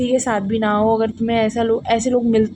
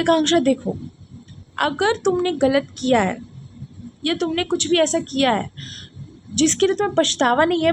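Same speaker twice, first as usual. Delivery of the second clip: higher, earnest advice from a friend; lightly voiced caring friend, pitched up; best friend advising; 5 semitones higher than usual. Best friend counsels her after the fight, earnest and higher. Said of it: "मेरी best friend ने मुझे समझाया था".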